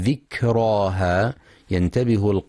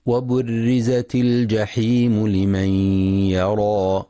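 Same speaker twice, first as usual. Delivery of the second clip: slow, measured tajweed chant; Quran recitation; slower than usual. Acted. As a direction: recite it slowly and melodically.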